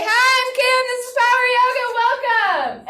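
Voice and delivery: high, bright sing-song welcome; sing-song class greeting. Shown as a demonstration. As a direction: greet the class in a lilting singsong. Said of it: "you say".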